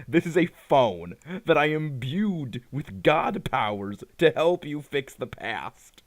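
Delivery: slow, lightly mocked godly proclamation; old Englishy voice. Arceus grants a phone with god powers, slow mock old Englishy voice. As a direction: draw it out like a mock ancient deity. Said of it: "that old Englishy voice".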